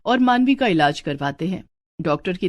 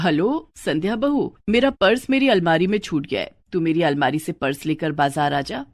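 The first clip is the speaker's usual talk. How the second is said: put-on an older woman giving easy instructions on the phone; a hint of a bossy mother-in-law; lightly voiced mother-in-law; 3 semitones lower than usual. Mother-in-law phoning her daughter-in-law, mildly commanding.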